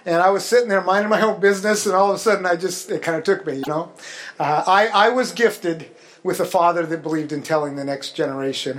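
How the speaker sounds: teary, voice a little choked; after crying. Real, not acted. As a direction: still moved, holding back tears. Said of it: "I'm a little teary-eyed".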